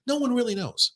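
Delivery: hushed secret whisper. Real, not acted. Conspiratorial aside.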